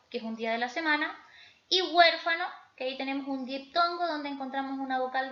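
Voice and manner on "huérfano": "huérfano" with force on the opening "huér"; stress on antepenultimate syllable. Shown as a demonstration. Teacher giving an example of an esdrújula, antepenultimate-syllable stress. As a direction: lean on the first syllable of "huérfano". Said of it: "se tildan en la antepenúltima sílaba".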